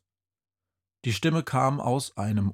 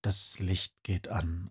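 ordinary delivery

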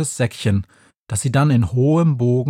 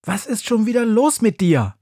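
much higher, nagging witch; scolding witch; 9 semitones higher than usual. A narrator's reading. Befana scolds her brother Grimm, nagging. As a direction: tell off a naughty little brother. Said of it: "schimpft sie".

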